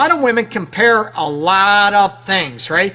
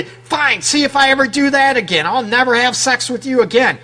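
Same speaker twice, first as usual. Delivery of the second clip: indignant huff; 4 semitones higher than usual. Retold or imitated. Angry woman snapping at her man.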